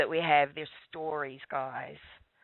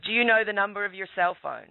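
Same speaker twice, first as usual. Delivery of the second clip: officer's question; 5 semitones higher, 3 dB louder than usual. Retold or imitated. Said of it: "and he said".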